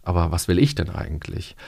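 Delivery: low-pitched question leaning on "ich"; stress on ICH. Shown as a demonstration. Coach turning from parents' wishes to one's own, stress on "ich". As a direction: set "ich" against the others. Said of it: "wenn ich das nochmal so betone".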